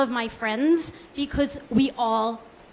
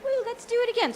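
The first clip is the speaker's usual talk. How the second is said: higher, giddy woo; mock excited body; 10 semitones higher, faster than usual. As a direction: cheer it on like a party guest. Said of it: "your body's like".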